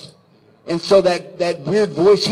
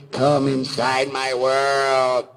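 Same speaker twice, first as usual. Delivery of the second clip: talking belly-button mouth; 3 semitones lower, much slower than usual. Retold or imitated. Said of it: "the belly button turns into a mouth. It says".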